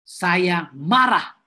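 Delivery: angry expression. Shown as a demonstration.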